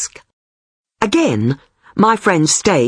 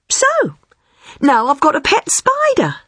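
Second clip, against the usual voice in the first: proud announcement; 12 semitones higher than usual. A narrator's reading. Friend proudly reporting her success.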